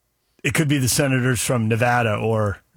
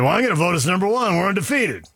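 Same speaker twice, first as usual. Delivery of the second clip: coach quote; 4 semitones higher than usual. Retold or imitated. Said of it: "stood up there on the podium and said".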